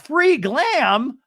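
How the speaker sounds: high, loud, delighted squeal; excited. Pretend. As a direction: perk up at a freebie. Host excited at free glam.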